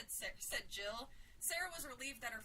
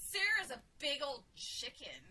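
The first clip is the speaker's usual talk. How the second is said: put-on loud, gleeful little boy taunt; boy crowing with delight; 2 semitones higher, 7 dB louder than usual. A narrator's reading. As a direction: crow it loudly, delighted to tease. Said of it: "he crowed in delight".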